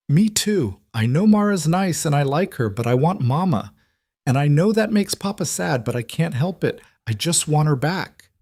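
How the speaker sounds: put-on high little girl's voice near tears; a small child choking back crying; tearful child. A narrator's reading. Twin sister to Mara, high and tearful.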